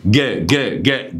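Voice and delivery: "ج" as short repeated hard "geh"; hard g demonstrated. Shown as a demonstration. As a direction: tap out "ج" as in go, syllable by syllable. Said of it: "شفت قلت إيه؟".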